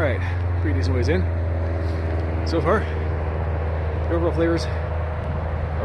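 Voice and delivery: cigar held at the lips; speaking between cigar puffs; talking around a cigar. Real, not acted. Seen 0: gloved hand holds cigar at lips while talking, sometimes lowered.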